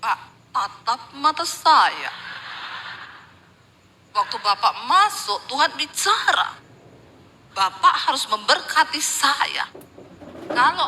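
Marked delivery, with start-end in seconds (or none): 0.0-9.7 slow, pressing mock pastor; lightly voiced greedy preacher; mock pushy pastor. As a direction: stare him down and demand a blessing, slowly. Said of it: "Ada pendeta begitu".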